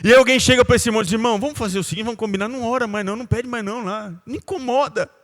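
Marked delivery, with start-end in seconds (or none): 1.1-5.1 softer, higher confidential brush-off; sly murmur. Retold or imitated. A church member softly telling the complainer to stop asking for prayer. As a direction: quietly talk him out of praying.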